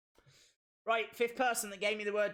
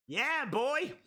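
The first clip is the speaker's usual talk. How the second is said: hype cheer; 6 semitones higher, 4 dB louder than usual. Real, not acted. Streamer hyped after the match, loud high cheer. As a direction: whoop it up.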